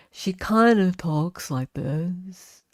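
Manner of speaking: slow, melancholy lawyer drawl; lightly voiced courtroom lawyer; Ashley Jennings voice. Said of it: "I've tried to do Ashley Jennings' voice".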